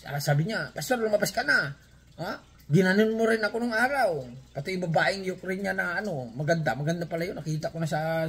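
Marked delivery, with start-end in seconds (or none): 0.8-4.3 mock angry. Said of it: "galit na galit kay pastor".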